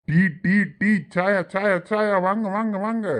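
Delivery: a tea seller's sing-song hawking cry; calling out tea. Acted. Tea shop owner calls out to passers-by, hawking cry. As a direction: call the passers-by in, pitch climbing.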